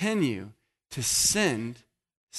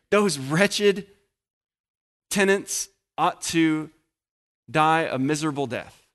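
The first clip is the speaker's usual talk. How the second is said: raised, pronouncing harsh judgment; condemning wretches; 3 semitones higher than usual. Retold or imitated. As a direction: spit out the verdict on the wretches. Leaders voiced condemning wretches.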